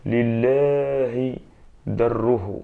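loud, drawn-out exclamation of admiration; admiring exclamation, stretched out; exclamation of wonder. Shown as a demonstration. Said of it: "أين يقول".

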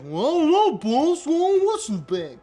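hammed-up Deep South yokel accent. Henchman answering the boss, hammed-up Deep South accent. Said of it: "Where's that accent from?".

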